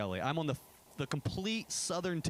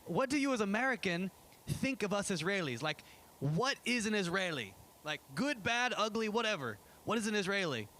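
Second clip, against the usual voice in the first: higher-pitched put-on Israeli accent; mock Israeli accent; 6 semitones higher than usual. Israeli high schoolers quizzing the pastor, in a higher mock Israeli accent. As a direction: imitate an Israeli teen asking the American. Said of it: "I have to give them some accent".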